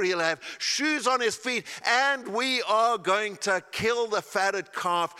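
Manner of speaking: father shouting for a celebration; joyful shout. Acted. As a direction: announce the feast to the whole house. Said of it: "he shouts at the top of his lungs".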